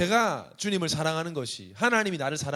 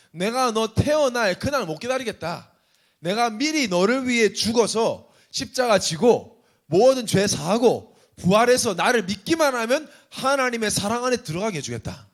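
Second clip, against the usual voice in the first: voicing God; 4 semitones higher, 5 dB louder than usual. Voicing God's promise.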